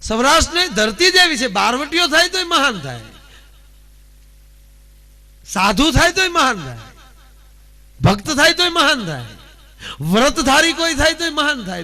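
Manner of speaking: high, loud orator's refrain; ringing dayro declamation; rousing declamation. Acted. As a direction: proclaim it like a folk bard to the crowd. Declaiming praise of the land.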